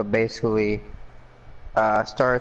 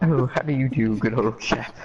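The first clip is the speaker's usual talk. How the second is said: put-on London accent. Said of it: "In an old London accent".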